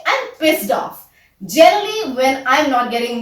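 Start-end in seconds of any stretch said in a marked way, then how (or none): 0.0-1.0 slow, deliberate model phrase. Shown as a demonstration. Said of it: "you can say".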